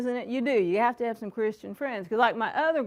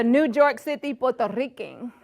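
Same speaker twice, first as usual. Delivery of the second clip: put-on tag Puerto Rican accent. Voices her Puerto Rican parent's side.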